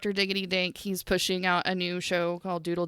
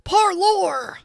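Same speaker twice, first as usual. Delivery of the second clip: playful call-out; 10 semitones higher, 6 dB louder than usual. Real, not acted. Calling out to friend.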